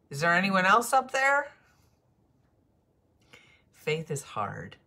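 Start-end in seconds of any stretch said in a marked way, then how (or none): 0.1-1.5 high, loud panicked call upward; man on a cliff yells for someone else to save him; desperate shout. Acted. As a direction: shout for any other helper. Punchline, man calls desperately.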